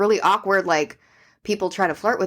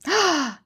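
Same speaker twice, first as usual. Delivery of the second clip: high, quick intake of breath; sharp shocked gasp; 10 semitones higher than usual. Real, not acted. Co-host gasps at a rude date story, shocked. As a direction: gasp as if scandalized.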